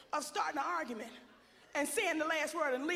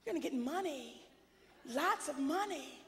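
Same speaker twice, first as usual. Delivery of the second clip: mock encouragement; 2 semitones higher, 3 dB quieter than usual. Mocking parents who took money.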